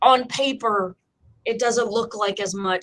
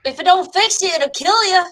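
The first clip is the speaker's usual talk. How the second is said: hammed-up folk saying; 9 semitones higher, 7 dB louder than usual.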